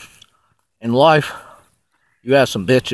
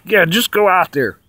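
higher, mock Tyson ordering him around; high-pitched Mike Tyson; 7 semitones higher than usual. Tyson sending the dreamer out to the car, high-pitched mock voice. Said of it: "With that high-pitched voice".

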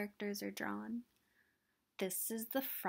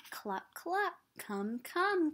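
Mother Hen calling; 4 semitones higher, slower than usual. Acted. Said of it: "calls Mother Hen".

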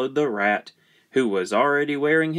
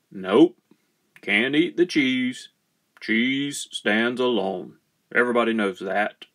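lightly voiced farmer; a hint of a firm farmer father; farmer refusing.

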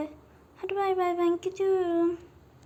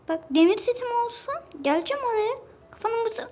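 threat; 6 semitones higher than usual. Real, not acted. Threatening the mob.

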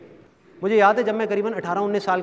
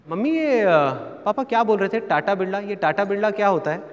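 lightly voiced curious little boy, higher pitch; child hesitantly asking his mother; small child; 3 semitones higher than usual. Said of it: "उस time मेरी एज थी पाँच से छः साल". (छोटे बच्चे जैसी हल्की, जिज्ञासु आवाज़)

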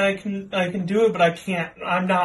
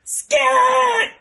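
high, loud yelled call of Scott; shouted name; 8 dB louder than usual. Pretend. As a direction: belt the name out like a puppet German. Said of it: "Just go, "Scott!".

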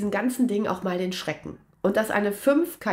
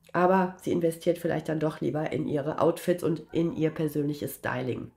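ironic; 4 semitones lower than usual. Real, not acted. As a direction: toss off a dry ironic jab, voice dropping. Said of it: "Naja, Ironie aus". (ironisch, trocken dahingesagt)

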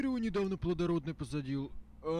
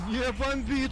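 denial; 5 semitones higher, 6 dB louder, slower than usual. Acted. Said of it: "echoes the taunt".

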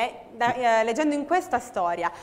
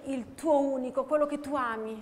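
tender, emotional; 6 dB quieter than usual. Shown as a demonstration. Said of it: "Vuole praticamente svegliare le sue emozioni".

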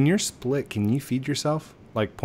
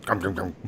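mock munching; 5 semitones lower, 6 dB quieter than usual. Imitates munching on another player.

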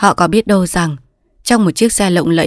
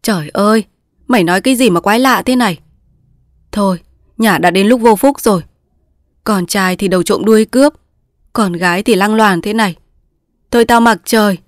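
scolding outburst; 3 semitones higher than usual. Acted. Mother scolding her daughter, angry. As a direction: berate the disgraced daughter. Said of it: "Cụ Án la lên".

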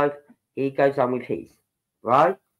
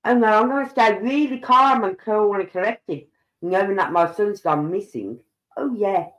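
heavy mock sincerity, pitched up; sarcastic; 3 semitones higher than usual. Speaker mocks the calm text about the missing son, sarcastic. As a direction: scoff at how calmly it was said.

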